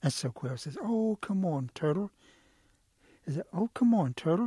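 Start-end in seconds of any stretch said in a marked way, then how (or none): 0.8-2.1 higher, wheedling "oh, come on"; coaxing plea. Acted. Storyteller as Quail begging to borrow whistle, coaxing. 3.5-4.5 higher, pressing plea; insistent coaxing. Acted. Storyteller as Quail pressing Turtle for whistle, insistent coaxing. Quail pleads a second time.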